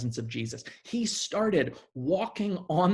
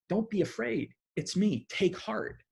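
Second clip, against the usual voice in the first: softer, gentle reassurance; comforting reassurance; 5 semitones higher, 4 dB quieter than usual. Acted. Jesus comforting scared disciples on the boat, gently softer. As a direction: soothe frightened friends softly. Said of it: "He's meeting it with comfort and assurance".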